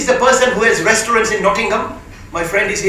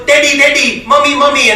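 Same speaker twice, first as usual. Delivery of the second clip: put-on child calling; 5 semitones higher than usual. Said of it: "the baby boy goes".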